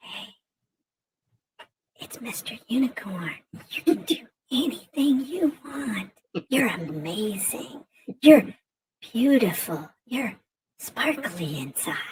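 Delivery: low, slow, soft unvoiced whisper.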